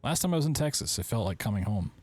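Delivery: love letter read out, lifted a little. Acted. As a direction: read it aloud as a personal letter. Reads a love letter aloud.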